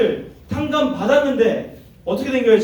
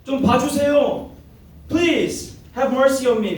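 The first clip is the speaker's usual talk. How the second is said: slow, higher pleading for mercy; mock pleading; 4 semitones higher, much slower than usual. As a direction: beg the king, drawn out and lifted. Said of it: "애원하는 거예요".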